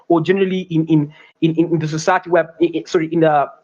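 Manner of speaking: halting, repeating the first words; stammering. Real, not acted. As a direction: stumble and restart the words. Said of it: "forgive my, uh, stammering".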